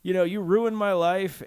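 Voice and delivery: high, loud, whining accusation; whiny accusing woman. Retold or imitated. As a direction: wail it like a wronged drama queen. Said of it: "she's like".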